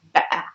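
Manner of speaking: BETTER with a little gap instead of the T; glottal stop. Shown as a demonstration. Teacher repeats the example, glottal stop in BETTER. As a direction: cut the air in the middle of BETTER. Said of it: "a little pause in the middle of the word".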